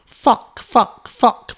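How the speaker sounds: put-on high, loud squeal of little kids; squealing children. A narrator's reading. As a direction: squeal it like gleeful toddlers. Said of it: "they squealed".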